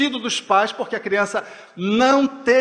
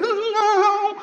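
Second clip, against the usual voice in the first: high, sung-out scared little no; a frightened child insisting it is not afraid; mock fearful child's no; trembling denial; 13 semitones higher than usual. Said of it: "a voz denuncia".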